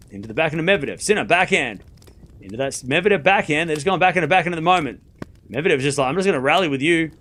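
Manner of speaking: quick running rally call; live tennis commentary, brisk; play-by-play. Acted. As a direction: track the ball shot by shot.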